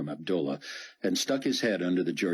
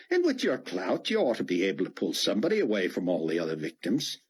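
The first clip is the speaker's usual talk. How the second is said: a touch of a drawling rescuer, higher, offering help; casual stranger talking the commander into leaving; lightly voiced folksy helper; 4 semitones higher than usual. Dart to Fortunato, a lightly voiced casual helper.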